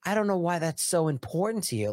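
a hint of a dismissive official; lightly mocking quote of the governor. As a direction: mildly mimic her brushing it off. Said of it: "she says".

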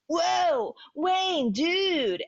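high-pitched slacker buddy impression; Garth. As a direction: call out in a high, put-on dude voice. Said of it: "Dana Carvey as Garth".

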